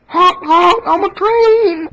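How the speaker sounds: loud honking toy train. Pretend. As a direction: honk like a cheerful train. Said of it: "One hundred impressions".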